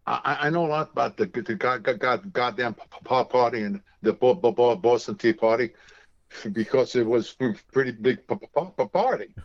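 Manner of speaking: stuttering blurt with a curse; mock Tourette's stammer, swearing mid-word; a retold friend's stammering outburst, lightly voiced; imitating Jerry's stutter. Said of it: "Told her she has Tourette's".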